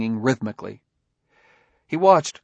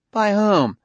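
indignant; 9 semitones higher, 4 dB louder than usual. A narrator's reading. Suspect challenged by detective.

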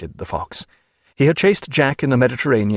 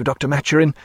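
nervous parson; 3 semitones higher, faster than usual. Acted. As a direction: play the timid chaplain, fussing. The parson voiced in story.

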